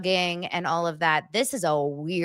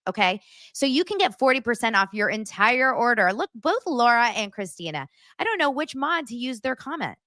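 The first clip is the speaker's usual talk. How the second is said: ad read. Acted. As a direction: sell the blanket lovingly. Sponsor read for blankets.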